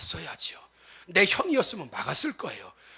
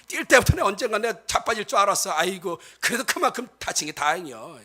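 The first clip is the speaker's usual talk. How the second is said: neighbour woman. Retold or imitated. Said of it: "근데 옆집 아줌마는".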